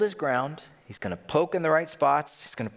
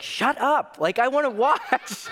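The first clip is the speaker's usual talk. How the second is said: much higher, louder laughing mock snap; retold hush; 13 semitones higher, 4 dB louder than usual. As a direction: laugh while shushing a friend. Telling friend to hush at movies.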